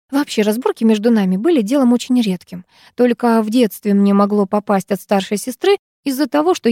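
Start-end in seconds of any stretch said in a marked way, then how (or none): none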